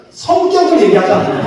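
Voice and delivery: laughing through the punchline. Real, not acted. Pastor laughs at his own joke, laughing. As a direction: chuckle out the words, pitch jumping up. Pastor jokes about forgotten detail.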